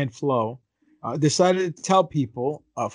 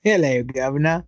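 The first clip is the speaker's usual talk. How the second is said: put-on British accent. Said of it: "let me do it in a British accent".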